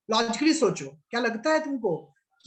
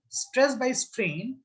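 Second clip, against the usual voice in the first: slow statement; much slower than usual. Shown as a demonstration. Teacher to students, slowly voicing a student's answer. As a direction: stress by strain drawn out slowly. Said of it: "Or I can say, "Sir".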